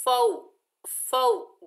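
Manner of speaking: फौ with a soft quick au; soft quick lin. Shown as a demonstration. Teacher showing a soft quick फौ. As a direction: say फौ softly. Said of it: "नरमी और जल्दी से अदा करेंगे".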